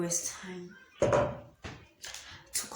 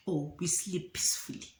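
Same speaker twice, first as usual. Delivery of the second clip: whispered aside; 3 semitones lower, 3 dB quieter than usual. Retold or imitated. Sly end of acted proposal.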